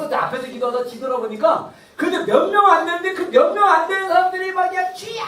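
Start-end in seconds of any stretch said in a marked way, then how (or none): 4.9-5.2 long raised-pitch call; imitated prayer yell. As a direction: imitate fervent worshippers yelling in prayer. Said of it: "막 소리 질러".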